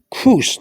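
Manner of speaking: "Cruz" said as kroos, the U as oo; pronunciation demo. Shown as a demonstration. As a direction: show the oo sound in "Cruz". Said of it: "The U sounds".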